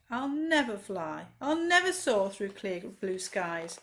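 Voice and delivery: slow, heavy hopeless lament; slow despair. Acted. Grounded butterfly mourning, slow and despairing. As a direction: drag each word out in defeat. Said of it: "he cried".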